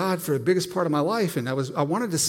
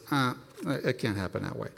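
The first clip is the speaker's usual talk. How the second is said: quiet voice of the Spirit; 5 semitones lower, 9 dB quieter than usual. Retold or imitated. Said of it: "the Spirit says".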